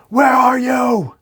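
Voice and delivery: high, loud and slow distorted shout; monstrous scream. A narrator's reading. Carnage hunting Torment, slow high monstrous scream. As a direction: drag out a monster's howl. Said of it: "as we spot Carnage screaming".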